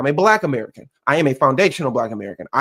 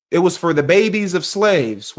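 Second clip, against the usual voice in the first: quoting Trump; slower than usual. Retold or imitated. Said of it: "what did Trump say?".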